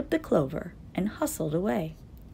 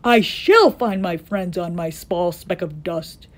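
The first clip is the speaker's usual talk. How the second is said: crying out; 8 dB louder than usual. A narrator's reading. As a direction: swear it at full voice. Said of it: "cried Horton".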